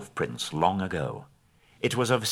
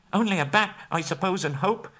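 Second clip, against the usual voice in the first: miserably; 11 semitones higher than usual. Acted. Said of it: "he said miserably".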